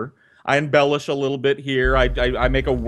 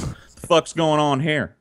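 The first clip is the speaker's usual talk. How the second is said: swaggering cowboy dad; 4 semitones higher, slower than usual. Acted. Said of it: "like he's John fucking Wayne and goes".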